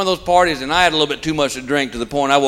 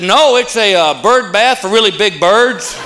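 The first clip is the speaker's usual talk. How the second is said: slow, dry sarcastic comeback; sarcastic reply; 3 semitones higher, slower than usual. Retold or imitated. Comic answering his neighbor, slow dry sarcasm. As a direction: drag it out, mock-serious.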